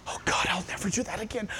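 hushed, quick, softly begging prayer; half-whispered mock repentance to God; remorseful plea. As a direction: drop to a small, soft, penitent voice. Acted remorseful prayer after failing.

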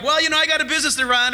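excuse-making. Pretend. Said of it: "And you're like".

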